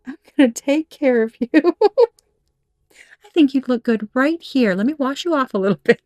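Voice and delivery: nurturing to a rock. Retold or imitated. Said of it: "you're talking to a damn rock".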